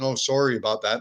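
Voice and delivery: Canadian "sorry" with a rounded "sore" vowel; lightly Canadian, "sorry" said as "sore-ee"; Canadian accent. Retold or imitated. Canadian newcomer apologizing to Portland schoolmates, in a Canadian accent. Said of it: "speaking with a Canadian accent".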